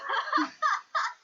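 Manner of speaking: bursting into a high laugh. Real, not acted. Laughs at her own answer.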